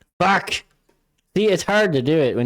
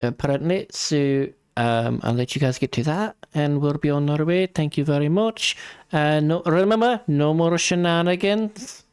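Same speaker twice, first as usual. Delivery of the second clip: chirpy NPC lady; 5 semitones higher than usual. Acted. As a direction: cheerfully wave the party off. GM voices departing NPC.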